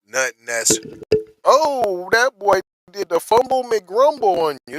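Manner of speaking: high, loud excited ramble; the host loses it over the news, shouting excitedly; excited outburst. Real, not acted. To his viewers, shouting in excited disbelief. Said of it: "'cause I got excited there".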